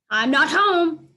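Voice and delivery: loud, slow yelled denial; dog hiding from Snickers yells back. A narrator's reading. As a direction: yell it from under the couch. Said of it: "I yell".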